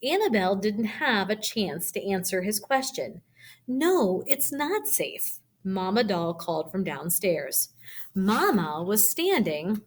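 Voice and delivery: lively storybook reading at a natural pace; reading aloud just right to kids; reading with expression. Shown as a demonstration. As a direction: let the voice rise and fall with the story. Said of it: "if I were gonna read it just right".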